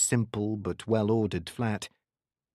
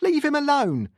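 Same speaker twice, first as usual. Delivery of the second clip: very high-pitched mother's yell; screaming; 4 dB louder than usual. A narrator's reading. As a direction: scream at them to release your son. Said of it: "screaming at them".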